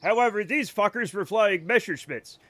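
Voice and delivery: put-on deadpan old pilot correcting the teacher; a hint of a wry pilot. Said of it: "And the pilot goes".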